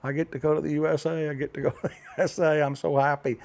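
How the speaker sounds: mimicking happy, breathless-paced celebration; imitating her excitement. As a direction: rattle it off like someone jumping for joy. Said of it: "she was jumping up and down".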